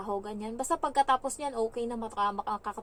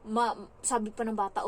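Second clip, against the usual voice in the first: ordinary delivery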